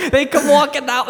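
laughing through the words, pitch way up; can't get it out for giggling. Real, not acted. Friend retelling a movie to his buddy, laughing hard.

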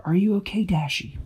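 high, caring fairy voice; worried fairy. A narrator's reading. Tweak checking on hurt Dashy, worried. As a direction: ask gently if she's hurt.

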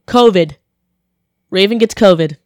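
ordinary talk

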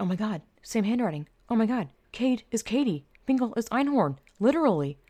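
re-enacted discovery, pitch climbing; stunned realization. Storyteller relives spotting the same handwriting, stunned realization. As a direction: let the realization dawn, rising as it lands.

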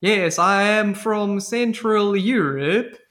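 slow, drawn-out mock pan-European accent; terrible European accent. Podcaster mocking the assassin's accent, terrible fake European accent. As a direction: put on a bad, unplaceable European accent. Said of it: "His accent is like".

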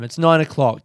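creaky morning voice; vocal fry. Real, not acted. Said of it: "Can you hear it in my voice".

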